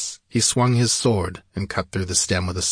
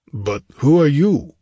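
raised, louder, insistent question; higher, forceful king's challenge; demanding; 5 semitones higher, 5 dB louder than usual. A narrator's reading. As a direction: demand it with a firm push on the last words. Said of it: "demanded Conan".

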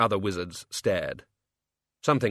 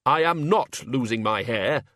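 a slow, indignant snap; snapped; 4 dB louder than usual. Acted. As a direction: bite back at the jibe about his hair. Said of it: "snapped the Dean".

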